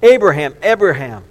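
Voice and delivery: called loud from above; angel calling out. Acted. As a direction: call his name across a distance. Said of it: "called out to him from heaven".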